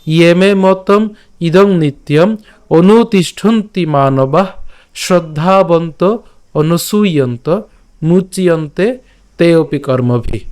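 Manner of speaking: teacher reciting the shloka for the class; slow Sanskrit recitation. Shown as a demonstration. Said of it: "আমি আবার বলছি".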